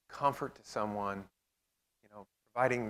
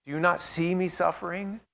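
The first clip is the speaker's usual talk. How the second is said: higher, louder anguished plea; pleading with God; 7 semitones higher, 6 dB louder than usual. Acted. Speaker voices a desperate believer crying out to God, higher and louder. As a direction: cry out as if God isn't listening. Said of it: "can you imagine talking to God".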